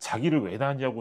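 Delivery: normal talking voice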